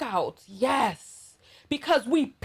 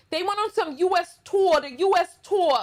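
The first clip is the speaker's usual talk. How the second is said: New York accent; 3 semitones higher than usual. Real, not acted. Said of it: "My whole New York accent is out".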